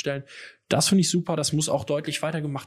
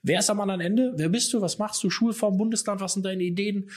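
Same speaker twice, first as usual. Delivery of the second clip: higher-pitched, eager run of questions; eager imagined caller; 6 semitones higher than usual. Pretend. Imagined call to a random teacher elsewhere in the country, eager and high. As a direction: play at chatting up a new colleague.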